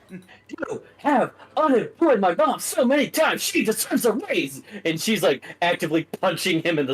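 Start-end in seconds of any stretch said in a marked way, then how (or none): 0.1-4.6 enraged yelling. Acted. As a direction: rage at him, every word a blow. Stacy beating Stuart.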